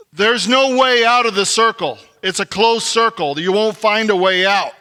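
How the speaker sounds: preacher pressing the lesson; emphatic preaching. Real, not acted. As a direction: hammer the truth home. Preacher lays out the point.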